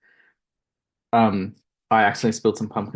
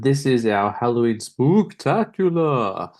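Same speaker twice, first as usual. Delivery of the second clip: slow, drawn-out spooky voice; much slower than usual. Pretend. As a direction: ham up a creepy Halloween intro. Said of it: "that's me doing a spooky voice".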